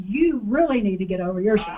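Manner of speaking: laughing through a playful rebuke; teasing with a laugh. Shown as a demonstration. Congregation member teasing a neighbour, laughing. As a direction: tease them, laughing. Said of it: "look at somebody else and say".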